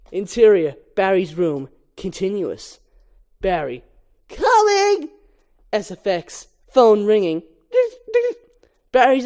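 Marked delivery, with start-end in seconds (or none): 4.3-5.1 high, loud reply up the stairs; calling back. Acted. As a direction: shout back to mom downstairs. Barry answers his mother.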